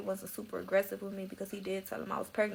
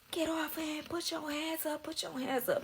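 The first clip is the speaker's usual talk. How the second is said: higher barked commands; mock police orders; 8 semitones higher, 3 dB quieter than usual. Agents ordering her off her boyfriend, higher mock commands. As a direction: bark it like an armed agent.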